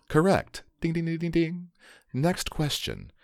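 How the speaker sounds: high bright ding-ding, quiz host glee; excited game show host. Acted. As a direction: ring out the win like a game show. Quiz host rings correct answer.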